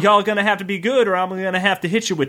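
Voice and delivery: tiny voice. Acted. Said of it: "a tiny voice".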